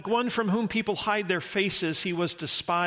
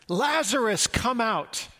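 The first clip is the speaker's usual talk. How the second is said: mild call; 4 semitones higher, slower than usual. Retold or imitated. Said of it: "Jesus approaches the tomb".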